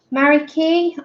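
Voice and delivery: Mariki opening on "Ma" as in "marry"; name pronunciation guess. Shown as a demonstration. Streamer afraid to say the name wrong, tentative "Mariki". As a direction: try "Mariki" with a full first vowel. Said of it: "don't wanna say your name wrong".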